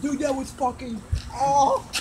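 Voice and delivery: high, strained from the burn; pained, mouth on fire; mouth burning from spicy food. Real, not acted. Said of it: "so burning".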